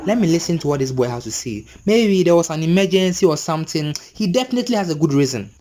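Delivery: reasonable, settled inner voice; calmed down. Retold or imitated. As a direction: talk yourself calmly into patience. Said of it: "I just calmed myself down".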